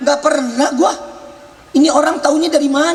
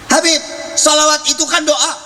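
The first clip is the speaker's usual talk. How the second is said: mildly raised, higher-pitched mock scolding; retold scolding; 3 semitones higher than usual. Visitor challenges the preacher at his home, mock scolding. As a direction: challenge him in a higher, insistent voice. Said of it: "gue dibentak-bentak".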